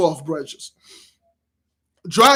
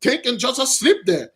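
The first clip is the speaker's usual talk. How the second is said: a lightly voiced, higher, puzzled raccoon; slightly raised voice of a bewildered raccoon; confused raccoon; 4 semitones higher than usual. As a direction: voice the raccoon, innocent and baffled. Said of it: "Raccoon was".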